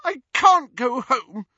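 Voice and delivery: high, loud, slow protest; anguished, high-pitched yell; shout. A narrator's reading. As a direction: cry out against being sent away. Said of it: "Ginny shouted".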